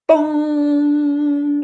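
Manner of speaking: a high, loud burst of joy; excited boom. Real, not acted. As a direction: land it like a revelation. Horse moment realization exclamation.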